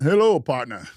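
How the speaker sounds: hammed-up Texas cowboy greeting; a lightly drawled Texas accent. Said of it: "my Texas accent".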